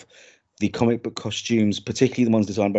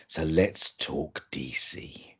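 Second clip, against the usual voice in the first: whispering; 6 semitones lower, 8 dB quieter, much slower than usual. Acted. Playful lead-in to topic.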